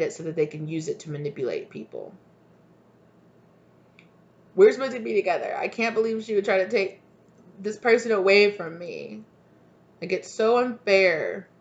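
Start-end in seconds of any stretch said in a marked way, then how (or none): 4.5-11.5 mock complaint of the jilted partner; whiny jilted lover. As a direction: pout it out like it's so unfair. Voicing karmic's complaint.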